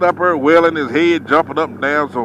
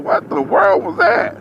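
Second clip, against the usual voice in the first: much higher startled exclamation; 13 semitones higher than usual. Retold or imitated. Trucker reacts to slime on his windshield, startled and high. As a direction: jump up in pitch, caught off guard. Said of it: "I'm like".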